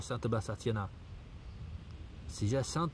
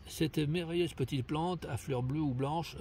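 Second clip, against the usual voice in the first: reading aloud. Retold or imitated. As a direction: read out the text as written. Lit le texte avant de le contredire. (lecture à voix haute)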